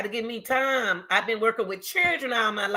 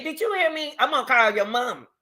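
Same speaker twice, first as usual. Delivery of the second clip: teacher scolding; 5 semitones higher than usual. Retold or imitated. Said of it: "that's how all the teachers say".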